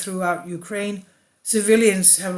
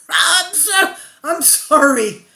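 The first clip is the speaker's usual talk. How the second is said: much higher, slow words squeezed through laughter; can't hold the laugh in while apologizing; real helpless laughter mid-sentence; laughing apology; 8 semitones higher, 4 dB louder, slower than usual. Real, not acted. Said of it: "I should not be laughing".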